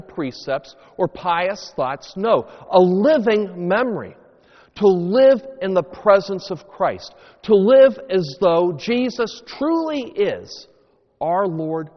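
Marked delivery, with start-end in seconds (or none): 2.2-11.9 louder, building to a passionate call; fervent preaching. Real, not acted. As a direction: preach it out with full conviction. Preacher's climax.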